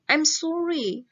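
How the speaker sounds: slow, clear reading for the class to repeat; teacher reading a phrase aloud; model reading aloud. Shown as a demonstration. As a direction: read it out as a model for students. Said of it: "Kita baca bareng-bareng dari nomor satu".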